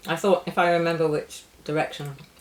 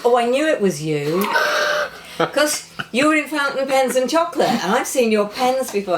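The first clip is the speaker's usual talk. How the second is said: quoting a stranger; 7 semitones higher, 5 dB louder than usual. Retold or imitated. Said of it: "somebody just goes".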